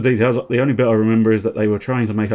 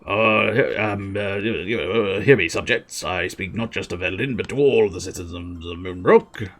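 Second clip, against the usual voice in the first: halting royal proclamation; dithering king. Acted. King addressing the citizens of Moonbrook, hesitant but pompous. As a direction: stumble through a grand speech with ums and uhs.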